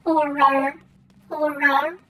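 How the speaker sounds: Horror said with no R sound, like hoo-oh; can't pronounce R. Real, not acted. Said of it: "I can't pronounce my R's".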